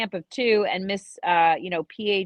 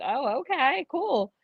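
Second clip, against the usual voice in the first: mildly surprised; 6 semitones higher, 4 dB quieter, slower than usual. Retold or imitated. Walking companion caught off guard, mildly surprised. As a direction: imitate a slightly taken-aback agreement. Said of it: "he was a little surprised".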